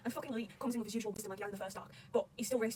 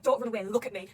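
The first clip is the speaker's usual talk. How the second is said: firm, louder mock telling-off; mum-like scolding; 3 semitones lower, 7 dB louder than usual. Mary telling someone not to run away, firm mock scolding. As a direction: scold lightly, as to a kid. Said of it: "scolding like a mum would scold a kid".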